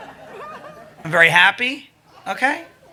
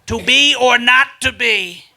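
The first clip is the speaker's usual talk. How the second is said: mock recital; 2 semitones higher, 3 dB louder, slower than usual. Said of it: "I did, like, a mock video".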